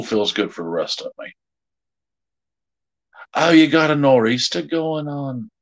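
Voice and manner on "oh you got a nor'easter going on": put-on higher-pitched playful Boston accent; mock Boston accent. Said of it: "how to say nor'easter in a Boston accent".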